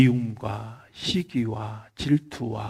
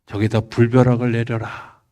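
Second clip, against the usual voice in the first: louder, commanding mock decree; hypothetical call for judgment, pushed louder; imagined loud proclamation; 7 dB louder than usual. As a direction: proclaim it as an imagined curse from the cross. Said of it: "라고 선포하셨다면".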